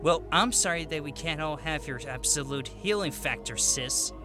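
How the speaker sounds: understated mockery of a sister; mock her lightly, dropping on the last word. A narrator's reading. Boy needling his sis over her healing factor, mocking. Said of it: "Amos mocked".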